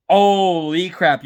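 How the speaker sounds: slow, long-stretched disbelief; amazed. Retold or imitated. Repeating the reaction to his near arrest, drawn-out amazement. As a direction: drag out the first word in amazement.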